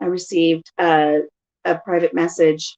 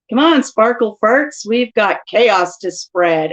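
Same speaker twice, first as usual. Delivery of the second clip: quoted audio clip; 3 dB louder, slower than usual. Retold or imitated. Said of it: "I used somebody's audio".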